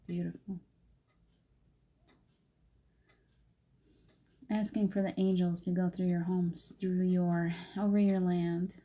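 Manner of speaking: gentle, even invocation voice; calm spiritual meditation read; guided meditation. Acted. Calls in angels in meditation.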